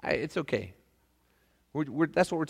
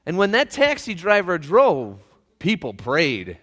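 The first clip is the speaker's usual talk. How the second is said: deadpan punchline; 8 semitones higher, 6 dB louder, slower than usual. Acted. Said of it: "Saint Peter said".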